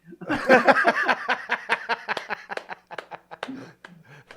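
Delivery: loud burst of real laughter; hearty laugh. Real, not acted. Laughing at the punchline.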